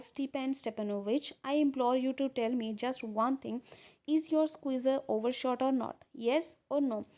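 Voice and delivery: reads the English lines out slowly and carefully; deliberate read-aloud of a script; measured reading of a classic play. Acted. Slow reading of play text.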